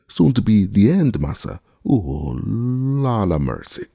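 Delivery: high, loud then slow wail; frightened cry. A narrator's reading. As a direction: cry out in terror. Jupiter cries out in fright.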